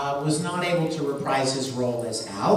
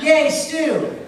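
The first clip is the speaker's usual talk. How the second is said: put-on higher childlike cheer with a laugh; lighter Al imitation; 8 semitones higher, 5 dB louder than usual. Repeating Al's line to the panel, laughing cheer. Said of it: "Al turns around and goes".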